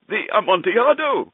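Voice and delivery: high, astonished exclamation; astonished cry. Acted. Chained friend in disbelief, astonished cry. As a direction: blurt it out in shock. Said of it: "ejaculated my friend".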